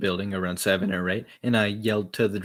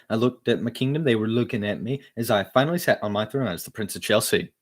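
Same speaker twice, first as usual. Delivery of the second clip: louder, hyped-up read; enthusiastic; 3 semitones higher, 5 dB louder than usual. Acted. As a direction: pump up every line. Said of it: "I gotta be enthusiastic".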